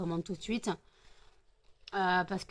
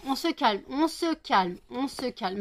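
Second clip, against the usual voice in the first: calming the dogs; 4 semitones higher, 3 dB louder than usual. Real, not acted.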